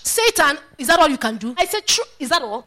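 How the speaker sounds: bold, taunting question to Satan; bold challenge. Acted. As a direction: challenge the enemy fearlessly. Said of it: "if you don't speak like that".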